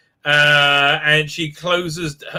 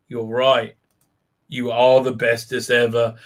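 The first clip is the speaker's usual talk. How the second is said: mock Book; 7 semitones lower than usual. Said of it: "He's like".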